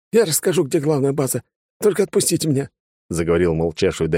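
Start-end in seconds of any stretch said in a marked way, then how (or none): 0.1-2.7 higher voice, rushing to cut a deal; eager bargaining prisoner. A narrator's reading. Silent prisoner offering to talk, higher eager voice. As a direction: beg to be let go.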